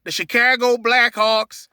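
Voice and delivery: slow, stereotypical Chicago accent; attempted Chicago accent. Shown as a demonstration. Host attempting an impersonation of Chicago, stereotypical Chicago accent. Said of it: "I wish I could do that stereotypical Chicago accent".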